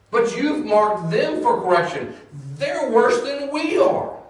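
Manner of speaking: high, pleading questions to God, rising to near shouts; a prophet pressing God on why he would use evil; Habakkuk pleading with God. Retold or imitated. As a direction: argue with God like a baffled prophet. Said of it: "I can hear Habakkuk going".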